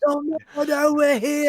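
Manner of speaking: slow, high mock stage whisper; hammed-up failed attempt at secrecy; loud whispering. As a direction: draw out a comically loud whisper. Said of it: "loud whispering".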